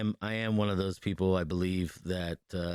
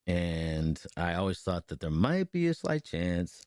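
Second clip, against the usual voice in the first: chewing gum. Real, not acted. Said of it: "I'm sorry, I'm chewing gum".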